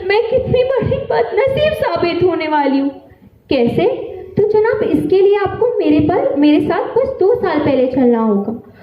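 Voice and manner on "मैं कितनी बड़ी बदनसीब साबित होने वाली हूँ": high-pitched, sorrowful lament; distressed lament. Acted. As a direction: lament your wretched fate, voice raised in pitch. Laments her own bad luck. (ऊँचे सुर में दुखभरा विलाप)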